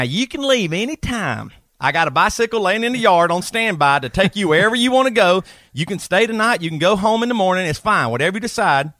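high, hammed-up Southern redneck voice; redneck Southern accent. The speaker, as a redneck, reassuring Anastasia in a thick Southern accent. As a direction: play the trailer-park romeo, thick Southern twang. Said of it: "Travis Gray reading Fifty Shades of Grey".

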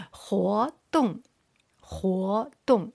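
活动 with 活 rising, 动 falling; second-plus-fourth tones. Shown as a demonstration. Teacher drills second with fourth tone, 活动 rising then falling. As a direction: lift 活, then drop 动. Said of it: "second tone with the fourth tone".

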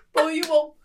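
mock American bro repeating the dare; bombastic American. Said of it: "more bombastic when I'm American".

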